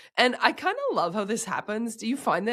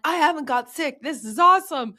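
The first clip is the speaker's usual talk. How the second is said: higher-pitched, mock-delighted self-quote; pitched-up retold excitement; gleeful boast; 8 semitones higher, 5 dB louder than usual. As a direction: imitate yourself naively celebrating. Quotes her earlier premature delight.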